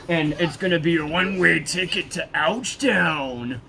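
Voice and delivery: hammed-up military instructor; imitating deployment NCO. NCO promising a one-way ticket to Ouchtown, imitated hype. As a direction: warn the troops with showy relish. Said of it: "he used to say".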